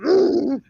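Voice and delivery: short mock moose grunts; imitated moose grunt. Hiker imitates moose still grunting at her, short grunts. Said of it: "still grunting".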